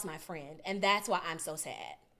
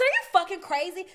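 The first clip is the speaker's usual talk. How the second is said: retold outrage; 7 semitones higher, 5 dB louder than usual. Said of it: "I said".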